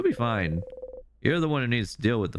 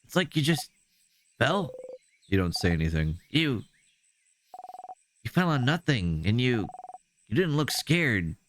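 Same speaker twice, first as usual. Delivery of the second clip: higher, probing and anxious; worried Isabeau; 8 semitones higher than usual. Acted. Isabeau questioning Bonnie's friend after the fall, anxious. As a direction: question gently but urgently.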